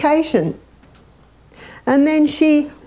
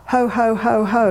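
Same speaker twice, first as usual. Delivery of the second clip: fake laugh. Shown as a demonstration. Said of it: "have a little bit of a laugh".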